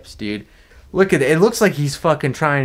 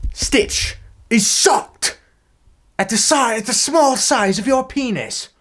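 much higher, slow squeaky mocking voice; 10 semitones higher than usual. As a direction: squeak it out like a cartoon. Mock narrator caption voice.

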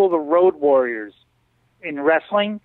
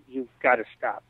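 whisper; 5 semitones lower, 5 dB quieter than usual. Retold or imitated. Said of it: "I'll whisper to people".

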